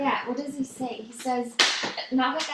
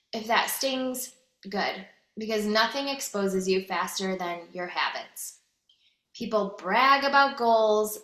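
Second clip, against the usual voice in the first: firm, punchy motivational reading; steady hard-hitting delivery of a motivational post; 2 semitones lower than usual. Acted. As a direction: read it like a tough-love pep talk. Reads a motivational text aloud.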